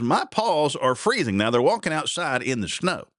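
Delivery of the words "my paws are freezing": big dog voice. Acted. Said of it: "The big dog says".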